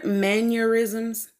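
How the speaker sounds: MANNERISMS said slowly, syllable by syllable; careful pronunciation. Real, not acted. Unsure of the word she means, careful slow "mannerisms". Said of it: "I think I said that right".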